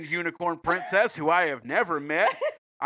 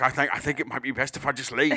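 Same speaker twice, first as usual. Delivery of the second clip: meek voice; 6 semitones lower, 5 dB quieter, faster than usual. Pretend. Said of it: "Fred was just like".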